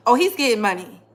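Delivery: normal talking voice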